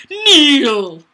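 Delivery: loud, sharp one-word order; mock villain ordering kneel; vicious command. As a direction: bark it down at them. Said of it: "that sounds vicious".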